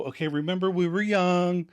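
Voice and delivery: stalling, pieced-out reminiscence; softening the blow. Retold or imitated. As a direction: ease into a confession. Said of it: "Ross tries to soften the blow".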